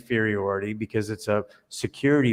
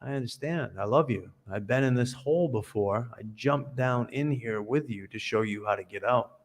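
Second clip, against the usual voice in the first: soft, gentle comfort; calm him like an old friend who's been there; quiet, caring voice; tender reassurance; 6 dB quieter than usual. Retold or imitated. Rescuer speaks lovingly to trapped man.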